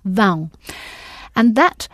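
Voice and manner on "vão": "Vão" with a nasal ending vowel; nasal diphthong. Shown as a demonstration. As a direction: push the sound through the nose on "Vão". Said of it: "It still sounds nasal".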